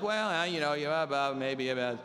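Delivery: mumbled, trailing half-words of indecision; wishy-washy waffling. Retold or imitated. Preacher imitating the hesitant pastor, wishy-washy waffling. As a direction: imitate someone who won't commit. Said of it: "Sometimes there's no maybe about things".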